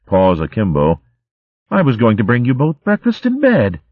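a touch of sarcastic scolding; mock-indignant nurse. Sister Cicely catching the youngsters, lightly sarcastic. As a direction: scold them with dry sarcasm. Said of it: "indignant mouse sister".

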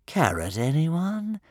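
motherly singsong, last word swooping up high; motherly dragon offer. A narrator's reading. Dragon offering a carrot to tired swimmers, motherly. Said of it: "swooping down from above in a motherly way".

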